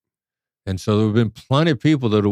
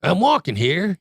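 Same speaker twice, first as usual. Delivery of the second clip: New York "I'm walking here"; 9 semitones higher than usual. Retold or imitated. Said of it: "that line".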